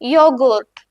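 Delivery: "യോഗൂർട്ട്" said yo-goort with a y onset; German ya sound. Shown as a demonstration. Teacher showing how German J sounds, "യോഗൂർട്ട്" as yo-goort. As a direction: open "യോഗൂർട്ട്" on a y, long oo at the end. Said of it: "യാ sound അല്ലേ വരുന്നത്".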